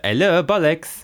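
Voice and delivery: put-on high, loud French-accented greeting; mock French accent. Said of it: "bits of French got added in".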